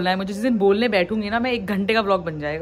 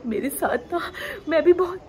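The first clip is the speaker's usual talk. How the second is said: higher pitched, put-on self-pitying voice; mock victim whine; 8 semitones higher than usual. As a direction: play the poor victim, a touch hammed-up. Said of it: "अगर रो के बात करो और victim बन के बात करो". (बनावटी रोती हुई पीड़ित की आवाज़)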